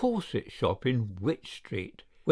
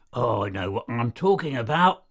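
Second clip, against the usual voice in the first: growled. Acted. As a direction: grumble it back as a mild rebuke. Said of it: "growled Meadows".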